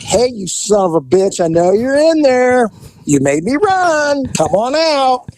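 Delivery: mock-tough cop shouting into the brush; calling out to suspect. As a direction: call him out of hiding, half mocking.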